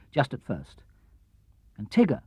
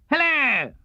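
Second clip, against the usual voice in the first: much higher, springy Tigger hello; Tigger's hello; 10 semitones higher than usual. A narrator's reading. Tigger greets Pooh in a high bouncy voice. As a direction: pop it up high like a bouncing tiger. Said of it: "said Tigger".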